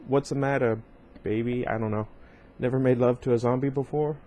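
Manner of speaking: lightly put-on regional accent; sultry drawled accent, only a hint. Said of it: "I don't know why I put on that accent".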